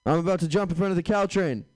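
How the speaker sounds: prank caller voice. Retold or imitated. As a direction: fake a dramatic threat. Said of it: "and say".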